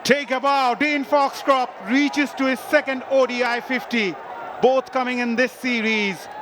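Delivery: rising, shouted praise for a big hit; excited shout of praise. Real, not acted. Commentator hails the batsman's fifty, excited shout. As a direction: call it out like the crowd's on its feet.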